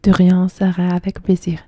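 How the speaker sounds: spoken in French; French words, lightly voiced. Shown as a demonstration. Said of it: "I'm enjoying to speak French".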